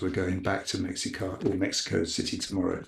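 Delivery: put-on calm the guards down in a polite English accent; posh English accent. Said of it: "in his best English accent".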